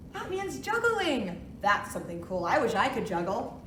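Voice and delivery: sing-song picture book reading; reading to a toddler. Acted. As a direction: read it gently to little kids. Reads alphabet book aloud.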